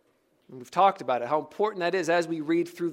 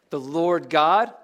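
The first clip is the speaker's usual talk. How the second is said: slow "Lord God", rising on "God"; emphasis on the name; 4 dB louder, slower than usual. Shown as a demonstration. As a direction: lean on "God" and let it lift. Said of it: "What's the emphasis?".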